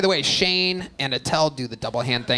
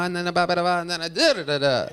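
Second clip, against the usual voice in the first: mimicking the comic's rhythm; faster than usual. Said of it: "This thing where you kinda".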